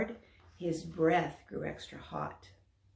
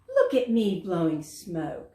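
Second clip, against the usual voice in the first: shouting; 5 dB louder than usual. Acted. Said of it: "He shouted".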